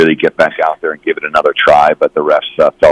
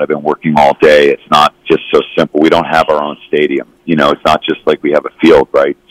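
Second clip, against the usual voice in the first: hoarse voice. Real, not acted. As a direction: voice shot from a long day. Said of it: "my voice is a little shot".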